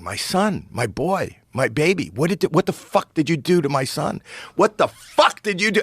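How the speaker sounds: anguished mock scream, high but not full volume; imitated screaming. Comic as bereft father demanding his son, imitated screaming. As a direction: retell his screaming, pitch climbing as it builds. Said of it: "he just starts screaming".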